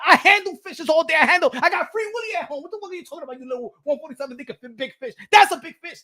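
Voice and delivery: loud, hammed-up trash talk shouting; mock Crawford rant. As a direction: play Crawford mocking his rival at the press conference, yelling. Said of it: "Yo, if I was Bud Crawford".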